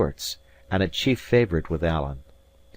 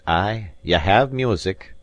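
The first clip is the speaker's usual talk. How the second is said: gloomy; 4 dB louder, slower than usual. Acted. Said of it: "said Alan gloomily".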